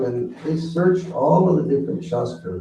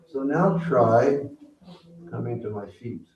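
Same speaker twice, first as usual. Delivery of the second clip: loving plea. Acted. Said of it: "lovingly saying".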